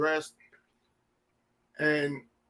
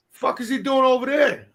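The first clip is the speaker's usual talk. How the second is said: raised, higher, louder mock outrage; retold gruff demand, pitched up; mock angry shout; 6 semitones higher, 5 dB louder than usual. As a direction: imitate Ivan barking the question. Ivan demands why son absent.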